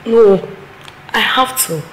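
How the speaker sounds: loud desperate defiance; loud defiant confession to aunt; defiant outburst. Acted. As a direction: shout back your love.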